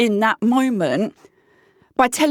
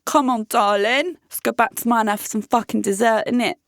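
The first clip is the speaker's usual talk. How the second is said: quick, lightly put-on chavvy British come-on; chavvy British accent. Man inviting his date back for dessert, chavvy British accent. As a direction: play the chavvy British chancer. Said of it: "I'm giving them the accent and we're rolling with it".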